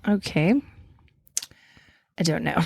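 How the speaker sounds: hint of a British accent. Co-host unsure of the era, British accent. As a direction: keep up the pretend British accent. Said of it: "bust out your British accent".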